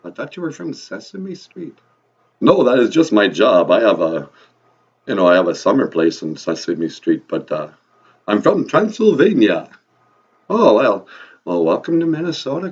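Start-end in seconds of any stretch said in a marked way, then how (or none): 2.4-9.7 put-on loud vampire with a Transylvanian accent; big, swooping vampire accent, dropping low at the ends; Count. Count explaining his day job to the podcast host, loud Transylvanian accent. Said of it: "your vampire accent".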